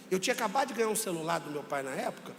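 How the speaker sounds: usual speaking voice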